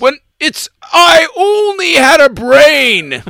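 loud, high cartoon monster voice; Armus voice. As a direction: wail it like a silly monster. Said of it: "What's that, Armis?".

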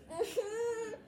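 short high-pitched giggle; high laugh. Real, not acted. Laughs at her own imitation.

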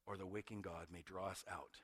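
soft, low intense reading; hushed reading. Acted. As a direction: draw the congregation in close. Quoting Annie Dillard, hushed.

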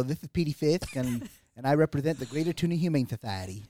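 lightly voiced lisping character; hint of a lisping country guy; Petey Fisk. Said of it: "Will you do that for us one more time? Introduce yourself as that".

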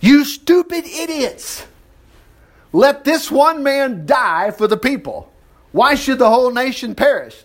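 high priest scolding his council, mildly scornful; lightly voiced scornful Caiaphas.

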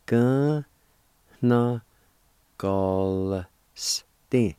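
teacher building up "Galstein" from its syllables; syllables, then the whole word. Shown as a demonstration. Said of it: "pronounce the L sound with the G A like this".

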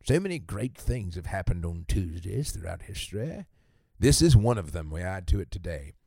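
put-on booming Dickensian English accent, like a Christmas Carol narrator. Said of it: "I hope you enjoyed my Christmas Carol accent".

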